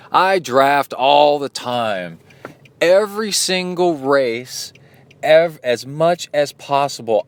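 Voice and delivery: mock-proud braggart with a laugh; mock loud bragger. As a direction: imitate the boastful guy, lightly. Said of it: "kinda loud".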